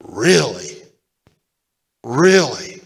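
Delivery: incredulous double really; amazed disbelief. Retold or imitated. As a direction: say it stunned. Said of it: "I just thought".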